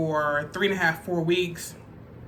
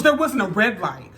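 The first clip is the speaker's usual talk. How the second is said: louder, sharp, indignant protest; indignant denial; 4 dB louder than usual. Retold or imitated. Boyfriend snaps at the cop, louder and indignant. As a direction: throw the denial back at him, a bit loud. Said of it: "He goes".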